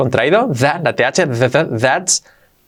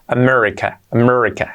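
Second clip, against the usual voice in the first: America in an English-speaker accent, "Amérrica"; guiri accent; 2 semitones lower than usual. Shown as a demonstration. Teacher playing the foreigner for learners, guiri accent. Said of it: "un poco así los guiris".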